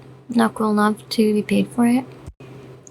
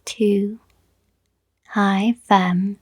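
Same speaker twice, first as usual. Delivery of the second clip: radio intro; slower than usual. Shown as a demonstration. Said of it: "Do you guys like that intro?".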